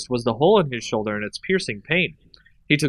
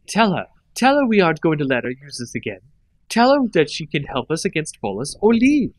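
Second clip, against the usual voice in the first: angry demand; 4 semitones higher, 3 dB louder than usual. Acted. Nissa demands angrily.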